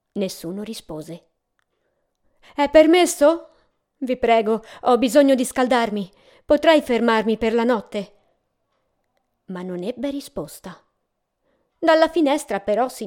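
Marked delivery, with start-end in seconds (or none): 2.6-8.1 loud, polite call for shelter; calling out plea. Acted. Cold traveller begs an unseen host for shelter, calling out. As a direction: ask to be let in, projecting through a door. Knocks again, pleads for shelter.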